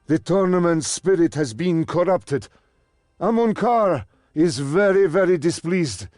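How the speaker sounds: loud, high, outraged rebuke; indignant scolding. Acted. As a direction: scold them for the disgrace. Servant scolds the fighters.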